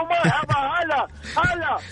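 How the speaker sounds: drawn-out, high, exuberant hello; over-the-top greeting. Real, not acted. Caller greets the radio host with huge excitement, a drawn-out happy shout. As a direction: welcome them like a long-lost friend, slowly and high. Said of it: "على مهلك يا ماجد".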